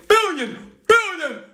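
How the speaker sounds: echoing repeat, high; echo effect. Acted. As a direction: voice echoing away. Echo effect on his name.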